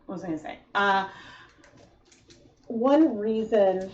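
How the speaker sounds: muffled through a respirator mask; talking through a rubber mask. Real, not acted. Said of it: "I'm so much more muffled now".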